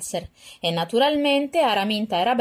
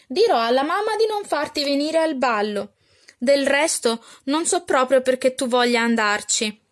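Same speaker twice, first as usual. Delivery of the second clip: pitched-up, louder catty taunting; spiteful stepsister; 5 semitones higher, 3 dB louder than usual. Acted. Arabella taunts her sister in a lightly raised bratty voice. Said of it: "sbraitò Arabella".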